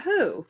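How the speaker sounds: Who? lifted high like a curious question; asking who. Shown as a demonstration. Chair teaching the last syllable of Gurahu, a questioning high who. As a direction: ask Who as if you really wonder.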